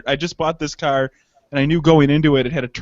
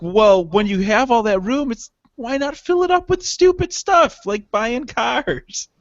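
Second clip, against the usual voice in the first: high, mocking voice of his own logic, drawn out at the end; mock reasoning; 5 semitones higher than usual. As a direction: sell the silly excuse with a high, drawn-out twist.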